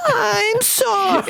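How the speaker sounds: John Mulaney impression. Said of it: "like John Mulaney going".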